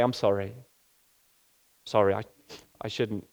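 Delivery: halting, subdued apology, lightly acted; emotional apology. Someone apologising after opening up, mildly acted emotional. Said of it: "when people are really emotional".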